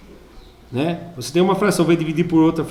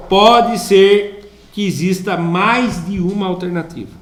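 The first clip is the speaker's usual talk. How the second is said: slow, measured classroom read-out; slow dictation to the class; reading an exercise aloud; slower than usual. Real, not acted. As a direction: read the question out firmly, word by word.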